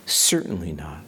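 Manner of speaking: hushed, firm whisper; whispered denial. Retold or imitated. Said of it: "he says that emphatically".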